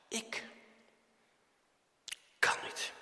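soft, halting near-whisper; hushed inability. Acted. Believer before God the Father, hushed and halting. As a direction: barely get it out, with a long pause.

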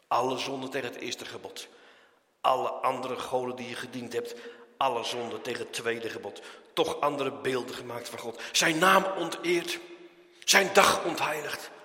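thundering Dutch preacher listing sins; full-force preaching. Acted. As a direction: hammer each sin home from the pulpit.

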